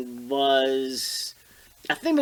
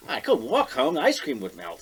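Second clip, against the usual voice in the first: higher, pleading mock child voice; mock whiny kid; 9 semitones higher than usual. Joking with his co-host, a higher mock kid voice. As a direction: play the kid with the melting ice cream. Mocking a kid's excuse.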